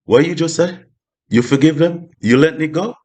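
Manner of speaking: karma can't believe you let it go; mock astonished karma; karma surprised. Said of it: "karma's like".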